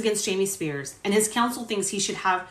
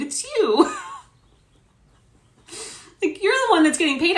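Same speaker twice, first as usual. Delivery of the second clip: high, loud it's you; exasperated retort; 10 semitones higher, 4 dB louder than usual. Real, not acted. Vlogger retorts to the lawyer on screen, high and loud. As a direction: fling it back at him.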